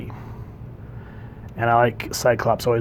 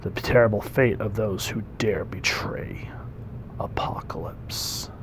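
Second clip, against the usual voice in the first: whisper; 6 dB quieter than usual. Acted. Villain's threat read from comic.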